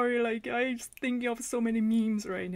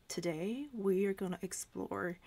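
documentary narration; 3 semitones lower, 5 dB quieter than usual. Retold or imitated. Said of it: "It's like a documentary".

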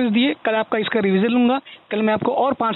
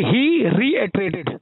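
very slow, each syllable laid out for writing; slow classroom dictation of a new word; 2 semitones lower, much slower than usual. Shown as a demonstration. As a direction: dictate it slowly so the student can write. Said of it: "और लिखिए".

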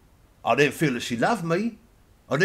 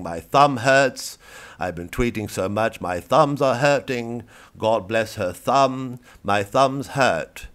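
slow, louder, whiny mock tweet; mock tweeters; 5 dB louder, slower than usual. Reporter quoting grieving tweeters, slow and louder. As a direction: drag out the aching thumbs. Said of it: "people are tweeting right now saying".

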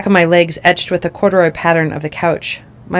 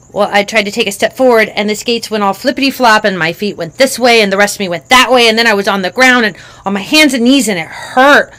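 put-on little girl voice; 3 semitones higher, 6 dB louder than usual. Child describes the fall.

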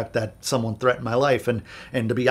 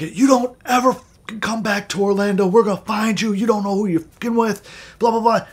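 higher, louder threatening rant; imitated furious yelling; 8 semitones higher, 4 dB louder than usual. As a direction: snarl the threat like the furious caller. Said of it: "This guy starts fucking yelling at me".

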